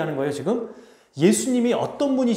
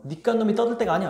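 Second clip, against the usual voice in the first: scolding; 5 semitones higher, faster than usual. Acted. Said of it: "사람들이 꾸짖었어요".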